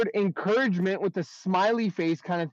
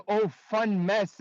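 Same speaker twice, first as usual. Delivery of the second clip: joking; 3 semitones higher, much slower than usual. Retold or imitated. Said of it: "as a joke".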